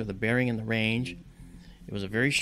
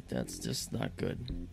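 slow, breathy whisper of dismay; storyteller whispering his own thought after being put in his place; whispered to himself; 6 dB quieter, much slower than usual. Retold or imitated. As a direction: murmur it under your breath, deflated. Muttered inner thought.

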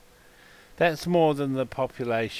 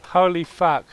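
raised, louder exclamation; amazed exclamation; 5 semitones higher, 7 dB louder than usual. Pretend. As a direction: exclaim it with a first jolt of shock. Reacts to yelling, then escalates.

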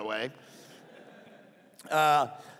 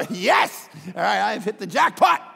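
gleeful; 8 dB louder than usual. Retold or imitated. Thrilled at his luck.

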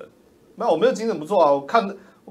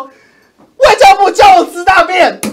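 mocking, much higher and slower, like a whining legislator; mock legislator quote; 14 semitones higher, 13 dB louder, slower than usual. A streamer mocks a legislator's complaint, high slow sneer. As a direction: drag it out in a sneering caricature. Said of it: "有一个立法委员拿出来说".

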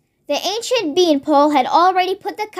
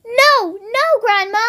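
alarmed cry; 5 semitones higher than usual. Acted. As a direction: try to stop grandma in panic. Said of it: "George cried out".

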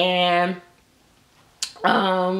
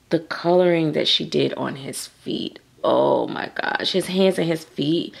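ordinary delivery

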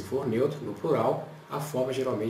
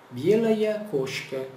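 slow model phrase; 7 semitones higher, 3 dB louder, much slower than usual. Shown as a demonstration. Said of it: "Como é que eu digo isso?".

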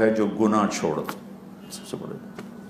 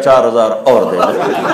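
louder, slow, laughing command; laughing order; 5 dB louder than usual. Acted. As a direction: deliver the punchline slowly. King rewards again. (ہنستا ہوا حکم)

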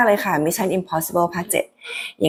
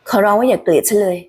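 a stronger, more urgent plea; begging harder. Acted. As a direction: push the begging up a notch. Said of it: "ลองคิดถึงเสียงของ Haley".

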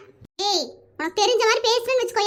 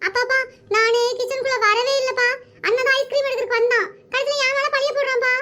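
mock-tearful child's whine; mildly weepy complaint; tearful whining. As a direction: plead to father, close to crying. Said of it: "எதுக்கு இப்படி அழுகுற?".

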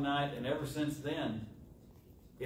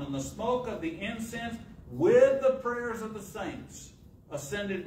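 raised, higher preacher's reading voice; scripture reading; 5 semitones higher, 3 dB louder than usual. Real, not acted. Preacher reads the angels' vision to the congregation, scripture reading. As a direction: read scripture out to a congregation, pitched up.

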